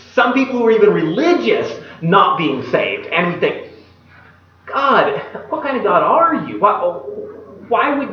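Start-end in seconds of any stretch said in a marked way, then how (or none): 4.7-8.1 frustrated protest. Retold or imitated. Believers questioning God over who is saved, frustrated. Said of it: "we become frustrated and angry with God".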